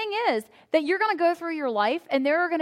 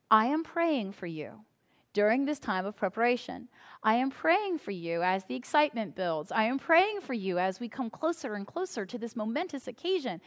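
earnest prayerful email sign-off; 2 semitones lower, 7 dB quieter than usual. Retold or imitated. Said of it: "very intentionally telling whoever I".

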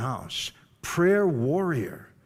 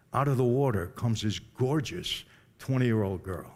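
slow motion; 4 semitones lower, 4 dB quieter than usual. Retold or imitated. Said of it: "everything went in slow".

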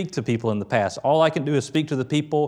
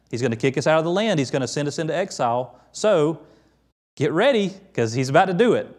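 rising alarm, pressing the warning home; voiced prophet warning; 4 semitones higher than usual. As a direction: warn the people like a prophet calling them out.

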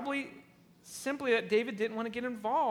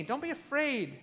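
sinister Absalom; 5 semitones higher than usual. Retold or imitated. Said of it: "Do you hear how evil this is?".

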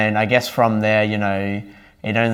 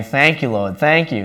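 fervent praise; 5 semitones higher, 3 dB louder than usual. Retold or imitated. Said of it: "I was just praising God".

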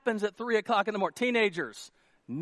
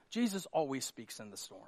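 lower, softer, understated delivery; hushed statement; 6 semitones lower, 8 dB quieter than usual. Real, not acted. Pastor telling congregation "let me say this", hushed statement. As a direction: state it quietly, letting it sink in. Repeats line with growing emphasis.

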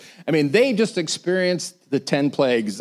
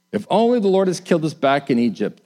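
mock moaning; 3 semitones higher than usual. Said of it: "they moaned".

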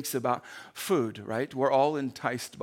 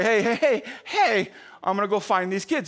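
louder and higher, hey hey hey like a grumpy neighbour; irritated calling out; 4 semitones higher, 4 dB louder than usual. Retold or imitated. Man at his window, ready to yell at kids, irritated shout. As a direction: call out to the unseen kids, fed up.

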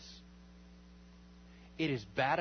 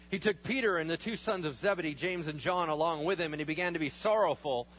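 usual speaking voice

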